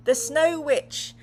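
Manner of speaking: slow, loud, high announcement; dramatic reveal. A narrator's reading. Narrator revealing the villain to viewers, dramatic. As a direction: unveil the villain with a gasp.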